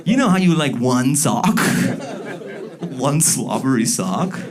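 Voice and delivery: high, excited puppy; a proud, eager golden retriever; eager dog voice. Retold or imitated. Golden retriever proudly presents the sock to its owner. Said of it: "the golden retriever's like".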